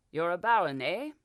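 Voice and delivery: a touch of impatient professor; short tone. Acted. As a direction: brush him off with a clipped challenge. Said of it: "in a short tone".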